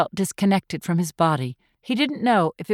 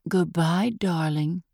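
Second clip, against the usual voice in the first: cooing; 2 semitones lower, 4 dB quieter, slower than usual. A narrator's reading. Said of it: "she cooed".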